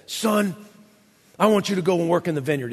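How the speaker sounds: barked harsh order; fast, curt bossy dad; brash. Shown as a demonstration. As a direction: snap it out like a brash command. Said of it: "he doesn't say it like this".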